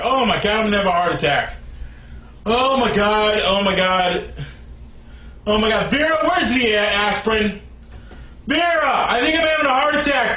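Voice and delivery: low, sunken voice of mock collapse; feigned heart attack. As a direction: drop right down after the rant, playing unwell. Acts out an oncoming heart attack.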